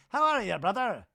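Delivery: high bro greeting; Danny impression. Repeating Danny's greeting to Brock, high bro voice. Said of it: "never fully connected with".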